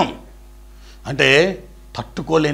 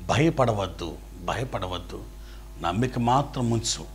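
softer, tender do not fear; soft reassurance; 7 semitones lower, 12 dB quieter than usual. Retold or imitated. Jesus gently reassuring grieving father, soft and tender. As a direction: comfort a frightened father gently.

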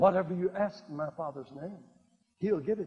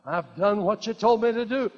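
emphatic declaration; 5 semitones higher, 7 dB louder than usual. Shown as a demonstration. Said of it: "Can you say that?".

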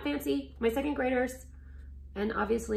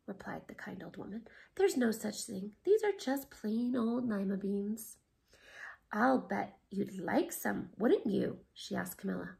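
whispered storytelling; 4 dB quieter than usual. A narrator's reading.

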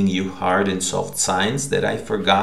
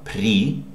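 при alone, given full stress; stressed first syllable. Shown as a demonstration. Teacher showing which syllable of the greeting is stressed, stressed при. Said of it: "syllable is the first one".

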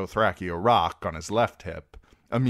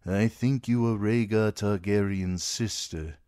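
rueful Ser Jorah; 3 semitones higher than usual. A narrator's reading. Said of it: "with a rueful half smile".

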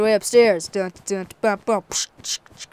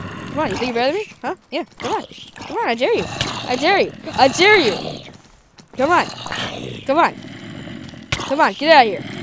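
goading; 5 semitones higher than usual. Real, not acted. Taunting enemies to attack.

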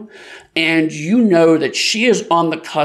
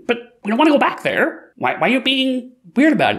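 higher, faster, confused; higher puzzled cat; 8 semitones higher, faster than usual. Acted. Young cat questioning his friend, higher and confused. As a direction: speak up, puzzled and quick.

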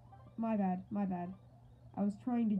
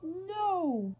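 mimicked scream; 6 semitones higher, 3 dB louder than usual. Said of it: "He just screams".

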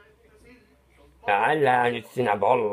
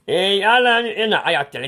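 sudden exclamation; 7 semitones higher, 5 dB louder than usual. Acted. Sudden outburst at himself.

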